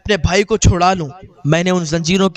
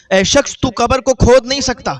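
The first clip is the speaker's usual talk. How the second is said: repeated warning, higher and louder, hitting کھود; louder stern warning; 4 semitones higher, 4 dB louder than usual. Retold or imitated. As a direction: raise the voice to forbid digging. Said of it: "تو آواز آئی".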